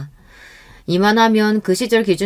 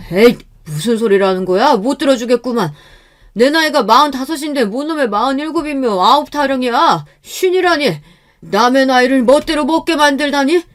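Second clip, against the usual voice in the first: higher-pitched acted grumbling protest; huffy outburst, building higher; indignant groom; 6 semitones higher, 4 dB louder than usual. A narrator's reading. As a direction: protest as if wrongly accused. Groom indignant at inflated age.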